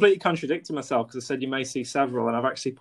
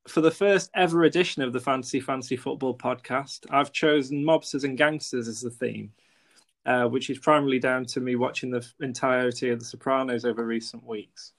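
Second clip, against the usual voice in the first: scripted intro read. Acted. Scripted podcast intro take.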